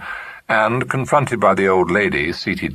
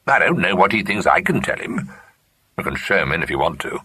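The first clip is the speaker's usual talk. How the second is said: disagreeable; 3 semitones higher than usual. Acted. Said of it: "Emily said in her most disagreeable voice".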